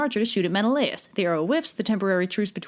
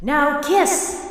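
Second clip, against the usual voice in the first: mock Aphrodite; 6 semitones higher, 4 dB louder than usual. Aphrodite pushing lovers together.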